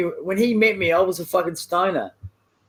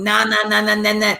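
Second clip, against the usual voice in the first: chanted nah-nah, drowning someone out; teasing la-la-can't-hear-you chant; mock refusal to listen; 2 semitones higher than usual. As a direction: block him out with a singsong nah. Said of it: "I don't wanna hear him".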